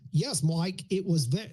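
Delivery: abortive attempt at an Australian accent; badly attempted Australian accent; failed accent imitation. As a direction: try an Australian accent, then give up. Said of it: "three words of his freaking accent".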